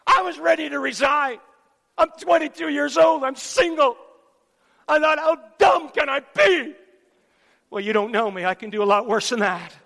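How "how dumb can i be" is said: high, loud exasperation at himself; retold cry of frustration; self-reproach. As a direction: berate yourself for the audience.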